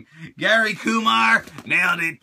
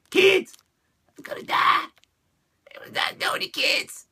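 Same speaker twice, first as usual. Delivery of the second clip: overlapping cries; 13 semitones higher than usual. Acted. Figure dying in bag.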